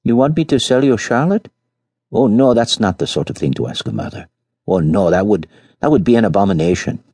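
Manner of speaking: put-on outraged at being asked to sell her child; furious mother. Peasant mother refusing to sell her son, indignant and furious. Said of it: "had arisen furiously".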